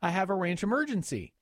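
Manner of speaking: lightly voiced teen daughter. Teen daughter explains car ranch.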